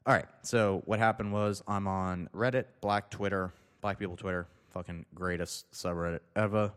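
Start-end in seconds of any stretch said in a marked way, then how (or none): none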